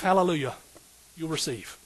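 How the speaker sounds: normal talking voice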